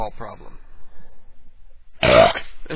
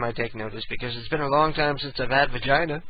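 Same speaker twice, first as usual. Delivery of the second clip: ordinary talk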